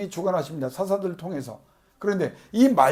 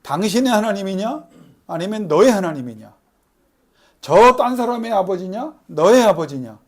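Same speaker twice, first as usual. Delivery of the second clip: God's question; 5 dB louder than usual. Retold or imitated. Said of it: "하나님이 여러분에게 질문하는 걸".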